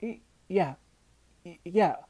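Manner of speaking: nervous high stammer. A narrator's reading. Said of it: "said Manfred nervously".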